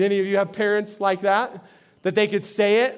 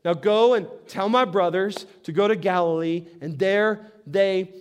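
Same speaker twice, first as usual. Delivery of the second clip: comforting; 2 semitones lower than usual. Acted. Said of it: "So he comforts them".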